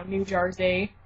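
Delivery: "Jersey" said with an East Coast vowel; "Jersey" leaning towards "Jarzy"; Jersey-style pronunciation. Shown as a demonstration. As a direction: say "Jersey" the local New Jersey way. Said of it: "I say it like that now".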